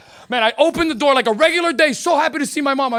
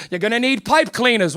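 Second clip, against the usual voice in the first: British TV presenter announcing a craft; put-on British show-host patter; British accent; 4 semitones lower than usual. Comic mimics Art Attack host listing materials, British accent. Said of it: "a show with a British guy".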